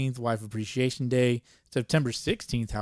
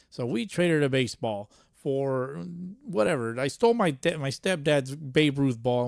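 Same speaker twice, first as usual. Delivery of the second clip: lightly raised, slowed storyteller voice of the buddy; sportscaster buddy telling his story; 3 semitones higher than usual. Retold or imitated. Buddy answers how he got into broadcasting, lightly raised storytelling voice. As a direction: spin the old tale like it's a legend. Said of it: "asked him, like".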